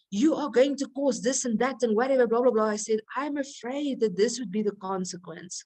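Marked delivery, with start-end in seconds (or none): 0.1-2.7 accusing. Shown as a demonstration. Wife showing her husband the blaming way, mildly accusing. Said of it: "I didn't say". 3.2-5.6 gentle, concerned, a little softer; soft and caring. Shown as a demonstration. Wife gently warning her husband, soft and caring. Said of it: "So I'm giving him emotion".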